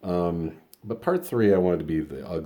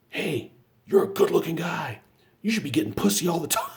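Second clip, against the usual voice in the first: much higher and louder, pumped-up buddy voice; friend's loud high pep talk; 14 semitones higher, 6 dB louder than usual. Retold or imitated. Big drunk friend outside the bar hypes him up, high and loud. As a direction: slap him on the back with a booming high hype. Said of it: "smacks me across the face and goes".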